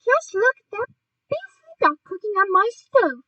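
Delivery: high, loud outrage; indignant cry. A narrator's reading. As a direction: cry out scandalised, pitched right up. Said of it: "cried Missus Gregg".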